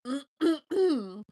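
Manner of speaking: amused laugh. Real, not acted. Laughing at own silliness.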